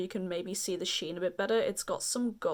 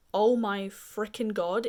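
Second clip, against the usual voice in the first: excited rave; 5 dB louder, slower than usual. Real, not acted. Raving about a formula.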